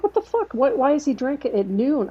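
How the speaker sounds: high, incredulous mock outrage; a husband's retold outburst, mock indignant and high; retold outraged husband.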